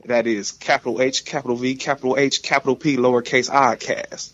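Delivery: smooth, lightly DJ-like spelling; smooth radio voice. Real, not acted. Guest giving his Twitter handle to listeners, smooth radio voice. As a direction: read out the handle with an easy radio polish. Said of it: "Ah, so smooth".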